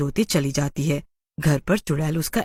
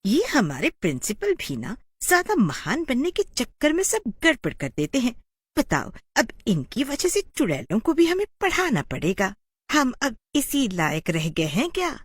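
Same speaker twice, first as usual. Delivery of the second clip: angry teachers; 6 semitones higher than usual. Acted. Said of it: "गुस्से में बोलती हैं".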